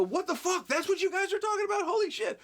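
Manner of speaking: high, fast mock astonishment; mock surprised. Stern pretending to be surprised on set, high fast fake shock. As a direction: fake shock to fool the crew.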